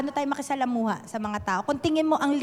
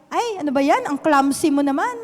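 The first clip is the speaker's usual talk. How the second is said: exasperated scolding; 2 semitones higher, 6 dB louder than usual. Retold or imitated. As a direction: play a nagging voice telling off a clumsy person. Scolding someone for clumsiness. (pagalit na pagsaway, mas malakas at mataas)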